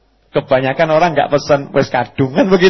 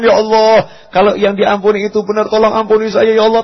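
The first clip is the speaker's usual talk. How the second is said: higher-pitched, earnest pleading prayer; truly fearful prayer; 6 semitones higher than usual. Shown as a demonstration. Preacher shows a sincere prayer, higher and pleading. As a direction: plead as if you're truly afraid. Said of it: "Takut benar nih".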